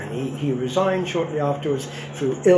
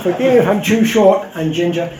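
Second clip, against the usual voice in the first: louder, laughing retake of the apology; laughing redo; 5 semitones higher, 7 dB louder than usual. Shown as a demonstration. Speaker repeats his apology to the audience, laughing. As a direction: say it again through laughter. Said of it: "I'll say it again".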